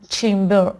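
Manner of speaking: چمبر stressed on CHAYM; چمبر as CHAYM-ber; first-syllable stress. Shown as a demonstration. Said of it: "استرس روی اولش قرار".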